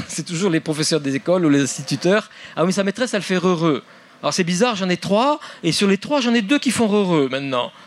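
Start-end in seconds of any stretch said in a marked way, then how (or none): 2.6-3.8 slightly raised, lightly acted parent; parents' voice. Parent explaining the child's accent by the teacher, lightly voiced parent. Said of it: "alors les parents disent". 4.2-7.7 higher-pitched, lightly acted puzzled parent; parents' voice. Parent puzzled that two of three children changed accent, lightly voiced parent. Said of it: "alors les parents disent".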